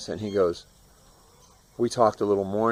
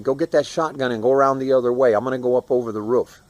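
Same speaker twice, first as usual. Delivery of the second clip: quick, slightly raised urgent instructions; retold yell; 3 semitones higher, 4 dB louder, faster than usual. Brother sending sister for the shotgun, hurried retold yell. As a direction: rattle off orders as a mild mock yell. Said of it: "I yelled at my, my sister's name".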